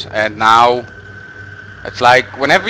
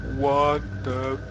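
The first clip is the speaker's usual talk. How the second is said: whisper; 12 dB quieter, slower than usual. Real, not acted. Frightened whisper at creature.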